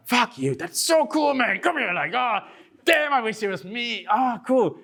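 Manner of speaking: high giddy "fuck you, that's so cool"; thrilled friend. Retold or imitated. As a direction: gush like a friend bursting with excitement for you. Friend Ducky thrilled for him.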